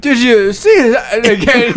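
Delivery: helium voice. Retold or imitated. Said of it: "Say it again".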